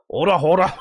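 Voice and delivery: high, loud call to order; judge. Acted. Voicing the judge calling the court to order, high and loud. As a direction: rap the gavel with the voice.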